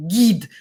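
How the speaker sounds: "Gid" with a hard stopped g; corrected Russian pronunciation. Retold or imitated. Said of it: "And then I say".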